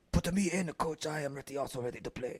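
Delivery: quiet, lightly put-on Asian accent; softly mock the eager player; Asian man accent. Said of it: "That I can only can do an Asian man".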